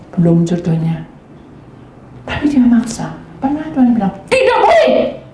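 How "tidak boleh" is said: high, half-laughing refusal; firm God voice. Retold or imitated. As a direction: forbid it with a chuckle.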